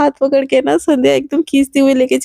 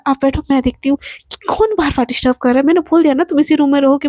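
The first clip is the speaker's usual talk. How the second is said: fast irritated; faster than usual. Acted. Irritated at repeated knocking.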